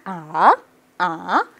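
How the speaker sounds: "아" sweeping up from low; rising tone. Shown as a demonstration. Teacher drilling the wiper move, rising tone. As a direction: swing "아" upward like a wiper. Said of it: "이성은 와이퍼 동작".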